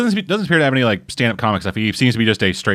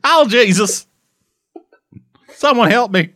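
high, loud hammed-up wail; mock panic; 13 semitones higher, 4 dB louder than usual. Playing along with the panicked character impression, high mock-terrified shouting. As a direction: cry out in exaggerated, put-on desperation.

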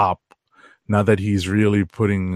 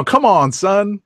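Ed Lover catchphrase; 10 semitones higher, 5 dB louder, much slower than usual. Retold or imitated. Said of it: "I sound like Ed Lover".

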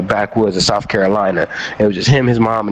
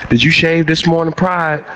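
drill sergeant; 5 semitones higher than usual. Retold or imitated. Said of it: "my drill sergeant's coming down the line".

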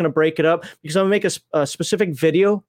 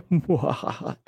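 mock evil laugh; 5 semitones lower, 5 dB quieter than usual. Mock villain laugh after payment caveat.

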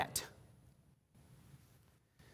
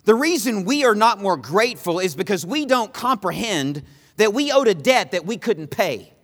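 driving, emphatic sermon delivery; impassioned preaching; 6 semitones higher, 3 dB louder than usual. Real, not acted. Preacher urging believers to grasp their unpayable debt, impassioned. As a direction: preach it with force, pressing each point.

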